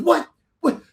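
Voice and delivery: imitating an offended, flamboyant cabin manager; flamboyant indignation. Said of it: "he's very flamboyant too".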